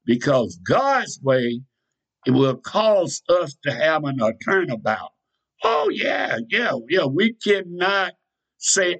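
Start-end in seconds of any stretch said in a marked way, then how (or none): 5.6-7.0 high excited cry of yeah; exclaimed yeah. Real, not acted. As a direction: burst out high in agreement. Preacher cries out agreement.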